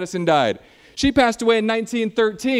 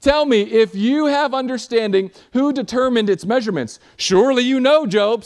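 louder, higher mocking challenge; God taunting Job in a mocking, raised voice; sarcastic God; 4 semitones higher, 4 dB louder than usual. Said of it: "this is God's sarcasm".

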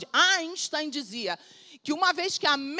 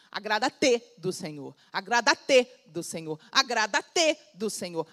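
slow, weighty repetition; drawn out and spelled out slowly; slow deliberate repetition; 4 semitones lower, slower than usual. Shown as a demonstration. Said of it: "o português arcaico".

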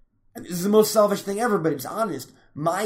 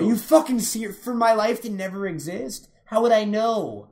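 raised, high-pitched indignation; incredulous protest; 4 semitones higher, 4 dB louder than usual. Real, not acted. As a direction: argue back in disbelief. Heated argument over the hypothetical offer.

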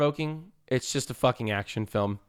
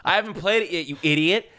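mock outrage; 6 semitones higher, 3 dB louder than usual. Yelling at spoiling friend.

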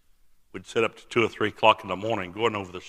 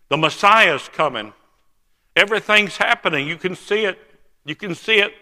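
excited; 6 semitones higher, 6 dB louder than usual. Retold or imitated. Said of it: "I'm excited that he's coming".

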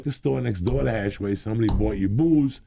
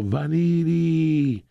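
long drawn-out street yell, higher; yelling a name; 9 semitones higher, 4 dB louder, much slower than usual. Retold or imitated. Nick yelling across the boulevard, drawn-out and loud. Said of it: "he would yell".

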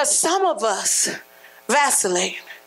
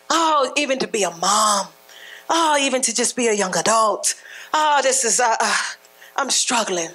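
lower, sighing struggler voice; mock weary complaint; 3 semitones lower than usual. Preacher imitating a struggling young adult, lightly voiced and weary. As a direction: imitate someone worn out by life. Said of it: "It's a stress point when you say it".

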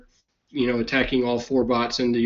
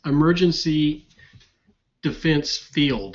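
slow and deliberate; slower than usual. Real, not acted. Reminding him of forgotten name.

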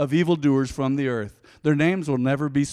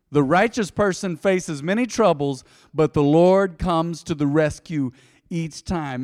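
louder, slow, preaching it out; proclaimed boldly; 2 semitones higher, 5 dB louder than usual. Shown as a demonstration. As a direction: declare it like a promise. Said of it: "Now let's hesitate there for a moment".

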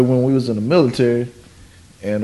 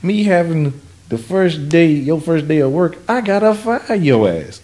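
imitating the boss; 4 semitones higher than usual. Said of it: "It'd be like".

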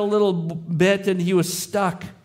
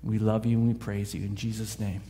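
closing prayer; 2 semitones lower than usual. Acted.

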